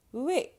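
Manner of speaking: "Oui" starting on a w glide; little w sound. Shown as a demonstration. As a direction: model "Oui" high and loud, with its w glide. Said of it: "a little w sound".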